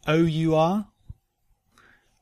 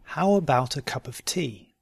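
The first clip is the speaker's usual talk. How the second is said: "How about a cup of tea" slowly, measured. Shown as a demonstration. Teacher giving learners a question to try, slowly. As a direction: take your time over "How about a cup of tea". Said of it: "first slowly and then".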